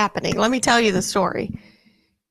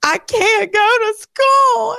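much higher, louder slow wail; wailing daughter; 12 semitones higher, 4 dB louder, slower than usual. Retold or imitated. Mother imitates daughter wailing about school. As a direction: cry it out like a panicking child. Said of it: "And she just starts scre".

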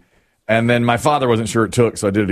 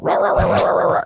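dog barking; 5 semitones higher, faster than usual. Retold or imitated. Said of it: "he came barreling out".

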